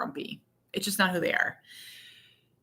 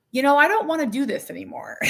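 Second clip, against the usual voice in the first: laughing quote; 6 semitones higher, faster than usual. Retold or imitated. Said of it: "suddenly I was like".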